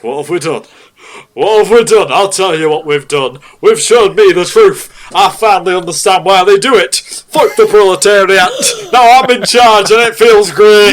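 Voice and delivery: gloating villain, building to a shout; dark lord. Acted. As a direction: revel in newfound power. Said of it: "read out your darkest self".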